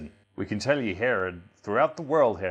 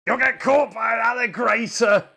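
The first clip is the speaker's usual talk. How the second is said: very high, loud storybook cry; excited warning; 13 semitones higher, 9 dB louder than usual. Acted. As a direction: squeal the danger at the kids. Punchline of a children's book read aloud.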